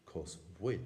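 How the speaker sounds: put-on cos bhuil with the old sound kept; Munster pronunciation. Shown as a demonstration. Teacher showing a form some Munster speakers still use. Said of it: "kept in some Munster Irish speakers".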